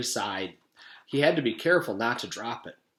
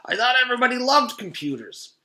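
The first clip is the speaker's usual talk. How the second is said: puzzled surprise; 11 semitones higher, 5 dB louder than usual. Acted. Puzzled reply, high far voice.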